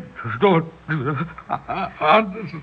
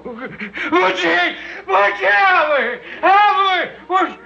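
panicked calling; 10 semitones higher, slower than usual. Acted. Terrified man calling his cat Bootsy for help. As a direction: call for the cat in terror.

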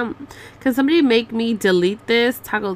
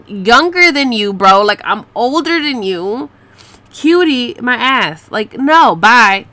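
punchy, louder offended retort; loud indignant rant; 4 dB louder, slower than usual. Real, not acted. Telling off a guy who called her cutie, loud offended retort. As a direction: push back hard, offended.

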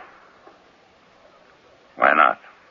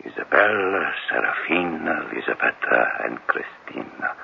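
fading tender; 5 dB quieter than usual. Acted. Recalling lost loves, fading.

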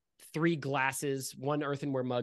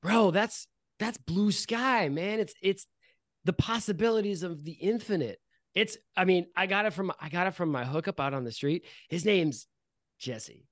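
lightly voiced dude accent; laid-back stoner accent; 4 semitones higher than usual. Friend explains the drug to Arnold, lightly accented dude voice. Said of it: "when I say it in that accent".

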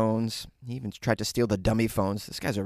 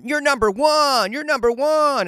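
high, drawn-out gushing praise; singsong high-pitched mock cheer; mock cheerleading; 13 semitones higher, 5 dB louder than usual. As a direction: hype them up like an overpraising parent. Mimics parents cheering on kids.

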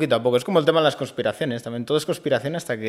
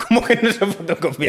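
incredulous laughing echo, pitched up; laughing disbelief; 7 semitones higher, 4 dB louder than usual. Real, not acted. Listener laughing in disbelief at the story, incredulous.

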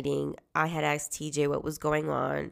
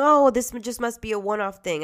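dismissive director; 6 semitones higher, 7 dB louder than usual. Retold or imitated.

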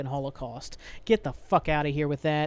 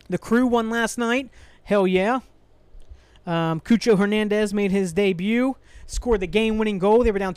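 excited sports news; 4 semitones higher, 4 dB louder than usual. Real, not acted. Switches to cheerful sports news.

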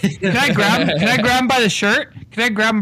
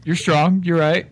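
grudging Irish con man; Irish accent; 4 semitones lower than usual. Acted. Con man conceding after being shoved, in an Irish accent. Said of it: "You go right back to your Irish accent".

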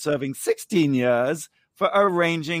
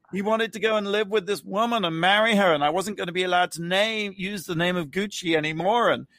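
higher-pitched mock confession, matter-of-fact; imitating an unrepentant interviewee; 4 semitones higher than usual. Host imitating the convicted wife's interview, unrepentant. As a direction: play her justifying herself without remorse. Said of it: "She's sitting there basically saying".

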